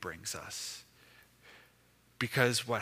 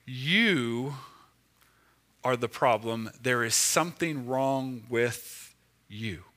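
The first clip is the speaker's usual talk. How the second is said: accusing voice of shame; 2 semitones lower, slower than usual. Pretend. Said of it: "the voice of shame ... will say".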